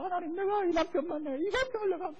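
high, aggrieved wife complaining to God; resentful prayer. Retold or imitated. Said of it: "원망스러운 기도를 해요".

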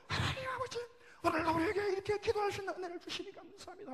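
very high, straining prayer cry; demonstrated wailing plea; same fervent tone. Shown as a demonstration. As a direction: pray on at the pitch of the opening shout. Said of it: "그 톤으로".

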